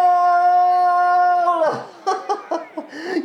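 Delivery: high, long excited cackle; elated laugh. Acted. Eliza's horse race ends, high elated laughing. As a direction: let out a breathless high laugh.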